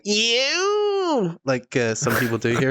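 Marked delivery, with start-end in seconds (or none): 0.0-1.4 high, drawn-out mock Northern Irish accent; Northern Irish sentence ending. Irishman mocking how locals end their sentences, exaggerated Northern Irish accent. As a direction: mimic a Northern Irish drawl, pitched way up. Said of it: "finish my sentences with things like".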